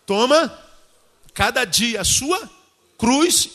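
ringing command. Acted. Preacher quoting Jesus' command.

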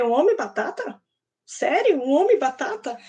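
playful incredulous questioning; retold amazement, pitch jumping on the query; acted surprise. Teacher questioning the boy's potato man idea, playfully surprised.

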